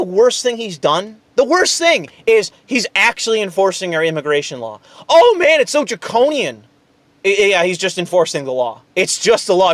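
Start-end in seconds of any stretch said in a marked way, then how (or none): 5.1-6.6 mocking the critics' outrage; sarcastic mock outrage. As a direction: ham up fake shock, then deflate.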